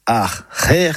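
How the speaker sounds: acher in two parts, article then throaty h; careful Breton pronunciation. Shown as a demonstration. Teacher models it with the article for listeners, careful pronunciation. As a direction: say acher slowly, separating the a. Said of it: "bien le prononcer".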